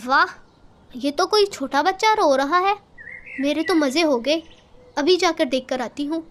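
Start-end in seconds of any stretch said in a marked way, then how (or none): none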